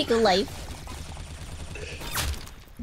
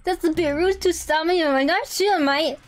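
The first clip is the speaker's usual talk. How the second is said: exaggerated British accent, higher; mock British accent; 4 semitones higher than usual. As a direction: play a huffy British gamer in a put-on British accent. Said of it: "British people be like".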